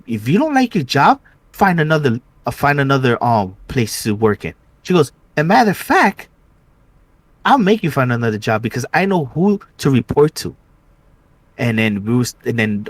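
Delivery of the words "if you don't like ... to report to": neighbor lady threat. Retold or imitated.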